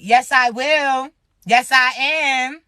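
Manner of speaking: lovey-dovey pouting. Retold or imitated. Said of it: "All lovey-dovey, all pouting and shit".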